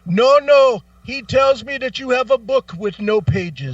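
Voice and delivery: high, loud, lilting explanation; mock sing-song agent. Agent explaining to caller, high lilting mock voice. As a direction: sing it like a scripted reply.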